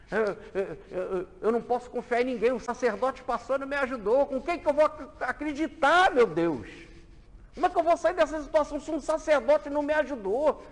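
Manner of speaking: clamor agudo e forte do ferido; desespero encenado. Acted. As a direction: grita como quem foi abandonado na estrada. Homem ferido clama sem ajuda. (homem ferido clamando, desesperado e alto)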